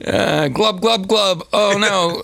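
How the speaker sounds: gurgling like mouth at waterline. Pretend. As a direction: speak as if water is at the lips. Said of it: "That's my onomatopoeias".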